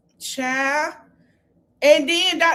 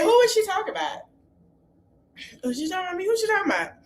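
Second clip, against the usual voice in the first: mock outraged disbelief; 7 semitones higher, much faster than usual. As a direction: act out her shocked outrage, way up high. Mocking a cast member's outburst.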